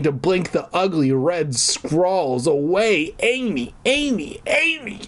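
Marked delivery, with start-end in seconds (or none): 3.2-5.0 climbing higher with each name; hammed-up rising hysteria; acted panic. A narrator's reading. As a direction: repeat it in mounting high panic. Name repeated in mounting horror.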